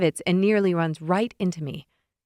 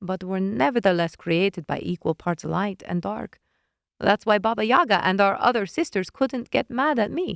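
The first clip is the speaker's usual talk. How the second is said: a hint of a smug witch explaining; lightly voiced witch. Witch explaining the bond to narrator, lightly voiced.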